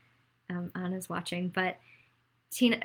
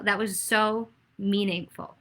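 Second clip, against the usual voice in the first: slow, voice catching with emotion; holding back tears as she praises him; getting emotional; slower than usual. Real, not acted. Candidate moved by a boy's answer, slow and choked up. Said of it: "oh, I'm gonna get emotional".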